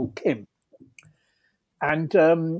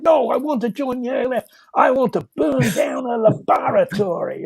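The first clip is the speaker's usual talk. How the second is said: loud voice; 6 semitones higher, 3 dB louder than usual. Retold or imitated. Stockbroker insisting in a crowded cafe, loudly. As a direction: blurt it out loudly, not caring who hears. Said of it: "in a very loud voice".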